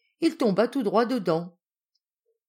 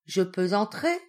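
coaxing wolf; 3 semitones higher than usual. Acted. Wolf coaxes at the brick house.

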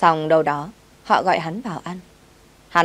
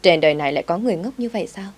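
smirking; faster than usual. Acted. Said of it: "cười nhếch mép".

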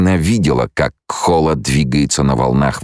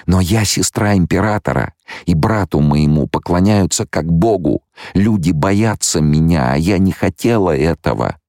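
higher-pitched female character, plaintive; distressed young woman; 6 semitones higher than usual. Acted. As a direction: confide her burden in a raised pitch. (жалобный высокий голос героини)

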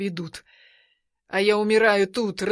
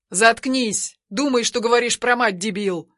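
angry scolding; 4 dB louder than usual. Acted. Brother scolds him.

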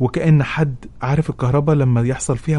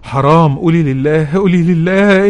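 higher, louder tearful urging; imitating a sobbing sister's urging; sister pleading; 7 semitones higher, 8 dB louder than usual. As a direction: push her to say it, voice climbing. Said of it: "أختي بتسكتني وبتقولي".

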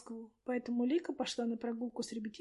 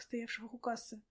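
plain reading voice

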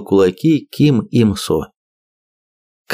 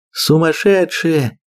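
shouting; 8 semitones higher, slower than usual. Acted. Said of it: "крикнула Лера".

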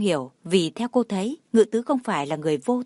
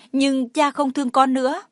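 put-on high little-boy voice, mildly upset; lightly acted childlike complaint; hurt child; 5 semitones higher, 4 dB louder than usual. A narrator's reading. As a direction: protest like a wounded small boy. Upset child answers his mother.

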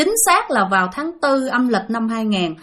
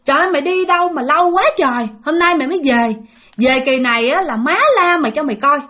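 retold scolding shout; 4 semitones higher than usual. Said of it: "mẹ la lên liền".

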